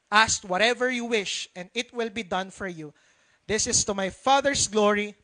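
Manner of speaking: measured scripture read to the congregation. Acted. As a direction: read the verses with weight. Reads Bible passage aloud.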